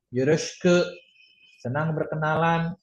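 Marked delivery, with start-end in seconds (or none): 0.1-0.8 Yoroshiku as "yoroshku", no i; silent i. Shown as a demonstration. Teacher demonstrating a greeting, silent i. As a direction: drop the i after sh in Yoroshiku. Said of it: "I-nya nggak dibaca".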